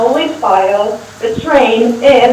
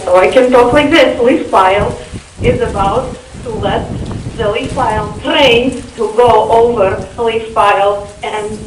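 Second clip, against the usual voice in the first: Russian accent. Shown as a demonstration. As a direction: speak English with a Russian accent. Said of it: "I can add my Russian accent".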